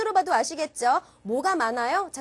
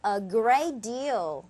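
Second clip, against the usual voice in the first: slow, lengthened "a great deal"; lower, lingering "a great deal"; slightly drawn out; 4 semitones lower, much slower than usual. Shown as a demonstration. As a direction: stretch both "great" and "deal". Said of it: "살짝 길게 가준다".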